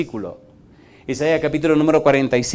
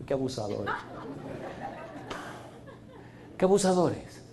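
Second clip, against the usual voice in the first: mock indignation; 16 dB quieter than usual. Real, not acted. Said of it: "aside comment".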